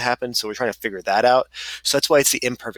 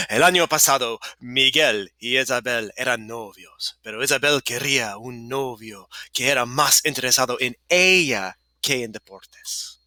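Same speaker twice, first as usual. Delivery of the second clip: slightly more measured Spanish; a little slower. Shown as a demonstration. Teacher rereading the story for students, a little slower. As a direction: ease back a touch, spacing the phrases. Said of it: "And a little slower".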